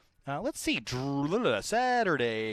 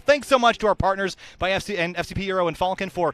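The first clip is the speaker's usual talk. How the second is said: lightly hyped sponsor read; a touch of big announcer; 3 semitones higher than usual. Acted. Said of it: "And now comes announcer voice time".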